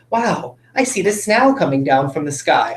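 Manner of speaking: snow said as snaʊ, rhyming with wow; wrong ow sound. Shown as a demonstration. Teacher demonstrating the mistaken snow, ow vowel. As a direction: say snow like cow. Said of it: "I don't say that".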